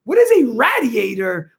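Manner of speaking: radiator said RAD-ee-ay-ter; short A as in "rad" in radiator; mimicked regional pronunciation. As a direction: quote radiator back with a RAD start. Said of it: "Why are you saying it like that?".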